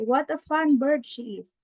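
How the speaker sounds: bright exclaiming; a touch of excitement; excited exclamation. Shown as a demonstration. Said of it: "the tone matters".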